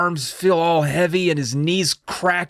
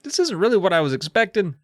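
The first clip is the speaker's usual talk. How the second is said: raised, thin voice, uneasy; uneasy old man. Retold or imitated. Steve decides to take the mask off, raised uneasy voice. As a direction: back out of the plan nervously. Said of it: "and he's like".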